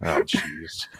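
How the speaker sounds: soft unvoiced oh jeez; whispered embarrassment. Real, not acted. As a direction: breathe it out in dismay.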